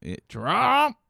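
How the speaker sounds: high, loud hick drawl; redneck voice. Pretend. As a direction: ham up a rural Trump fan. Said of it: "Isn't that how we have, are supposed to say it now?".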